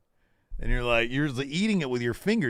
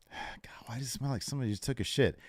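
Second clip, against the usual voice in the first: mock disgust; 9 dB quieter, faster than usual. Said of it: "you're like".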